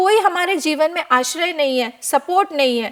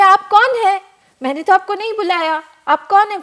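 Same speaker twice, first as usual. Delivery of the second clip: put-on higher, puzzled little boy; child's question; 4 semitones higher than usual. Upamanyu asking the disguised god who he is, higher and puzzled. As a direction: ask like a wary small child.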